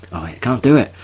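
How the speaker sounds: a jokey put-on Cockney accent; imitating a Cockney accent. Retelling his friend's Thorpe Park chat, mock Cockney. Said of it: "he's speaking in his Cockney accent".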